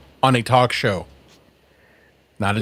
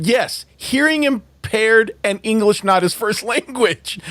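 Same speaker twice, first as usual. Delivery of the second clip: higher, breaking into a laugh; amused; 6 semitones higher than usual. Real, not acted. Host agreeing about the kid's accent, laughing. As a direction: laugh through the words.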